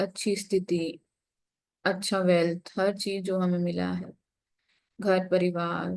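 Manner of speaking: unhurried meditation guidance with long pauses; guided meditation. Real, not acted. Meditation teacher leading the group into breath and gratitude, guided meditation. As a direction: guide them gently inward, pausing between phrases.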